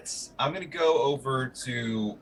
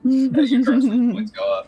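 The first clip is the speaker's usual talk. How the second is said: ominous voice; 12 semitones higher, 6 dB louder than usual. Acted. GM announces curse.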